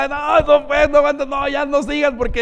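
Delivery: high, loud, acted helpless hilarity; mock crying with laughter. Preacher imitating someone crying from laughter, hilariously overcome. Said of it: "¿Alguien llora de risa?".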